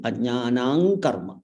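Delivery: "ajnanam karma" said as ajnanang karma; nasal ng ending. Shown as a demonstration. Teacher correcting the anusvara, slow ng ending. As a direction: end "ajnanam" on ng, flowing into karma. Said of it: "make sure to make it".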